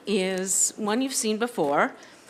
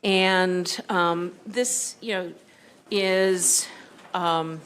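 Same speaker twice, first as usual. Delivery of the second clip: winded, short breaths between phrases; out of breath after rushing in. Real, not acted. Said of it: "I'm catching my breath here".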